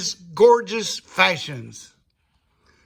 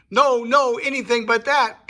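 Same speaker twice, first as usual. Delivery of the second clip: mock pleading; 6 semitones higher, 4 dB louder than usual. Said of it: "pleaded Captain Brummel".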